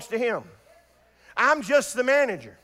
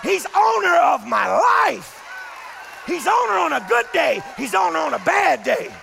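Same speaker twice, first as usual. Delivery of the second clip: preacher climbing from a murmur to a shout; preaching build. Real, not acted. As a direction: build the litany from hush to roar. Litany builds from soft to shout.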